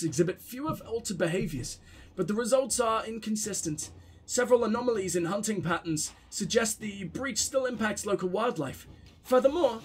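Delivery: flat, quiet droning woman reading a report; monotone woman voice. Acted. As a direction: read it dull and lifeless, like a bored clerk. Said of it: "gotta do my boring monotone woman voice".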